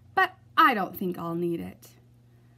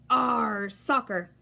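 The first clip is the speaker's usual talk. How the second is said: shouting; much slower than usual. Acted. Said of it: "kicked the ball and shouted".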